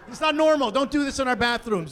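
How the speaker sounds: put-on father covering for the scene in front of his kids; flustered dad scolding.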